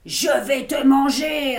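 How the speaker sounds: mock shout, playful; monster threat. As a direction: roar it like a little wolf. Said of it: "répondit Max". (menace de monstre criée pour jouer)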